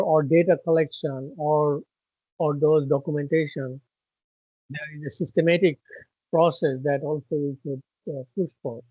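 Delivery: muffled, as if through a hand. Real, not acted. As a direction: speak with a hand over the mouth. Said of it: "your voice is a little muffled".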